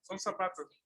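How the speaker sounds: chuckling through the joke; amused, laughing words; laughing at his own joke about the shoes. Real, not acted. Joke about shoe identity.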